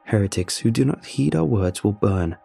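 reading aloud. A narrator's reading. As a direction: read out a grim warning deliberately. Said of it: "he said, reading aloud".

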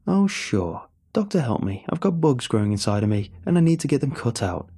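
mock him with a whiny voice. Supervisor mocking Danny.

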